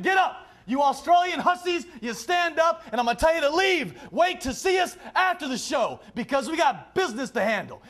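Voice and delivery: mock commanding shout. Wrestler playing out ordering the women about, hammed-up shouting. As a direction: boss them around in a hammed-up yell. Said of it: "And I'm gonna tell women".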